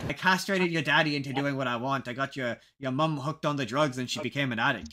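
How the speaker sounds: lightly imitated Irish mob boss; rough, half-hearted Irish accent; bad Irish accent. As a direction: have a go at an Irish accent, badly. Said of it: "That's a bad Irish accent".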